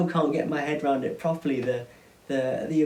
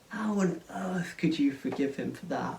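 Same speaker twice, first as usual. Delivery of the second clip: angry whisper; 4 dB quieter than usual. Acted. Furious older son.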